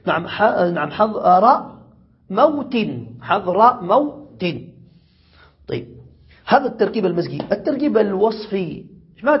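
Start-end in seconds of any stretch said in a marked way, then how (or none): 0.9-4.4 حضر موت said slowly as two words, moot separated; split compound. Shown as a demonstration. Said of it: "فتقول رأيت". (نطق حضر موت كلمتين منفصلتين ببطء)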